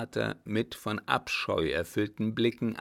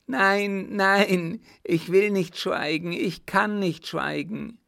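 high, loud, frantic refusal; crying out; 10 semitones higher, 6 dB louder, slower than usual. Acted. Mad son refusing his father's order, crying out. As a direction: cry out in desperate protest. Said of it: "rief sein Sohn".

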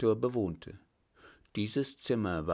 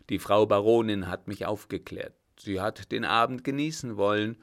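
put-on an old captain's voice, louder and firmer than the narration; 3 dB louder than usual. The old captain to the startled director, louder and firm. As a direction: speak as the old master calming a frightened man.

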